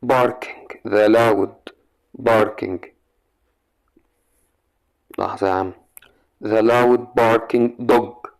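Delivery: slow, word by word answer; slow dictation. Shown as a demonstration. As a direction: spell it out slowly for the class. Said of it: "teacher dictating the answer". (إملاء ببطء)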